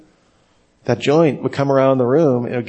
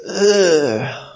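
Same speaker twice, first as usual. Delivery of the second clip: disgusted groan; 4 semitones higher than usual. Acted. Disgust at church jargon.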